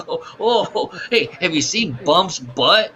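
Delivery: high, swooping chortle-talk; hammed-up chortling delivery; mock chortling. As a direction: imitate a man tickled by his own joke.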